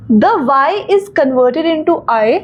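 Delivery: reads the rule out slowly, word by word; slow rule reading. Shown as a demonstration. Teacher reading a rule aloud to students, slow and deliberate. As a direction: dictate the grammar rule slowly to the class.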